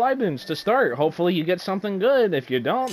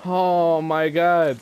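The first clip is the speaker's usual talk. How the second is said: raging gamer. Real, not acted. Frustrated outburst after dying.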